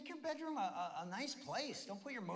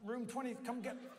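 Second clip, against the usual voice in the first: loud, higher-pitched read of a racy note; 6 semitones higher, 4 dB louder than usual. Retold or imitated. Chaplain reads wife's note to the players, out loud. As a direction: belt the note out to the room. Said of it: "but I read it out loud".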